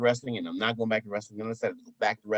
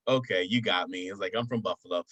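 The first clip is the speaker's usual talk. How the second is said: lower-pitched, understated confession; owning up; 4 semitones lower than usual. Retold or imitated. Caught faking by the woman, low admission. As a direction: drop the act and admit it. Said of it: "And I was like".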